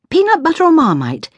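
high, hurried breakfast call. A narrator's reading. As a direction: call it out to a child across the kitchen. Harried parent calling out breakfast choices.

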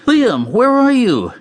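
high, drawn-out calling yell; acted yell. A narrator's reading. Bodyguard searches the chaos for his partner, high urgent yell. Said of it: "Aidan yelled, his adrenaline surging".

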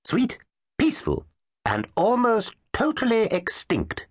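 put-on high twittery little old dinosaur voice; twittery old professor. A narrator's reading. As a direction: chirp it out like a tiny old scholar. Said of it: "twittery old creature".

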